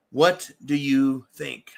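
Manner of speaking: "What do you think?" slowed down, every word landed deliberately; drawn-out, insistent repeat of the question; slow pointed repeat. Shown as a demonstration.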